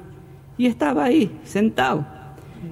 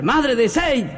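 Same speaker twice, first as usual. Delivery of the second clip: raised pitch, ordinary volume; mock calling out; 5 semitones higher, much slower than usual. Husband calls his unanswering wife at a party, mock calling out. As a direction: retell a husband's repeated public call. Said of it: "a gritar".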